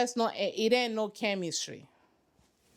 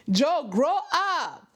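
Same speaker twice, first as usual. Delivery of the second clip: laughing, higher telling-off; laughing scold; 5 semitones higher, 4 dB louder, slower than usual. Real, not acted. Scolding Joe on screen, laughing. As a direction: scold him through a laugh.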